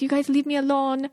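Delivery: lightly imitated Spanish accent; a half-hearted go at a Spanish accent; attempted Spanish accent. Mimicking a celebrity snapped at paparazzi, loose Spanish accent. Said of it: "all of a sudden slips into this, like, accent".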